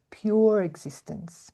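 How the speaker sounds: weighty emphasis on "pure"; stress on pure. Real, not acted. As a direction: lean firmly on the word "pure". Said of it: "I emphasize the word pure".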